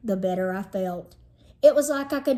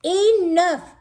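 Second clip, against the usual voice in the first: higher, louder firm order; commanding; 8 semitones higher, 5 dB louder than usual. Acted. Mother ordering the kids to stop, firmly. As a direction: shut it down with authority. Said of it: "commanded my mom".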